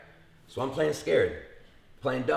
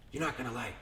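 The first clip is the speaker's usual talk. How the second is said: playing dumb; 9 dB quieter than usual. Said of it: "I start playing dumb with him".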